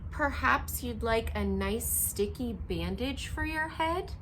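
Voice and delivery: a hint of a caring little girl; kind little girl. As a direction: gently offer help, lightly voiced. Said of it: "she said".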